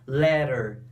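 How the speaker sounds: letter with both t sounds tapped, "lɛɾeɾ"; American pronunciation. Shown as a demonstration. Teacher showing the American t to the class. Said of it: "Pronúncia americana".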